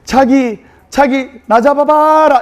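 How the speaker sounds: playful bride calling over her shoulder; flirty Seoul bride. Retold or imitated. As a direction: tease him to chase you. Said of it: "서울 신부가 서울 신랑에게".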